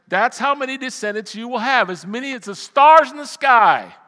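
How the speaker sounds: declamatory Bible reading; emphatic scripture reading. Acted. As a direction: proclaim the verse, climbing to a big finish. Preacher reads scripture, building.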